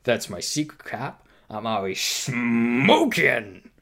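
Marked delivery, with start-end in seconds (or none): 1.5-3.7 mask voice. Retold or imitated. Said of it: "I can't do the mask voice".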